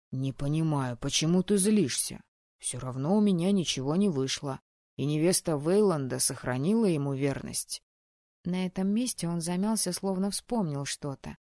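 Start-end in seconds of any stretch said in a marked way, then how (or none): 0.1-7.8 calmer. Acted. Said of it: "уже спокойнее добавил".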